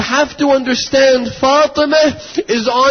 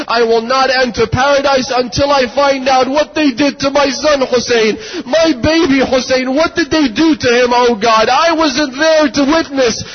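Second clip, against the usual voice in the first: anguished plea; 3 semitones higher than usual. Retold or imitated. Fatima's anguished plea to God retold.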